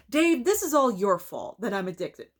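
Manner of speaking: running out of breath; breathless, rushing the end. Real, not acted. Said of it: "I ran out of breath for a second".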